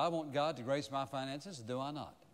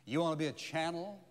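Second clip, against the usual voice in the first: preaching altar call. Acted. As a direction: press each question home gently, one by one. Sermon altar call over music.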